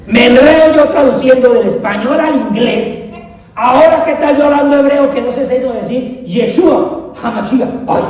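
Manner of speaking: ordinary delivery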